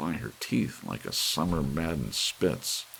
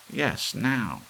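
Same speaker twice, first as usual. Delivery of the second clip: cried; 11 semitones higher, 4 dB louder than usual. A narrator's reading. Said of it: "cried Missus Bellows".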